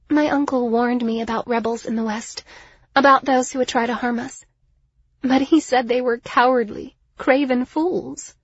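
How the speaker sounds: proud lady recounting a warning with disdain; haughty Liriana, grave. Acted. Liriana telling of her uncle's warning, haughty and grave.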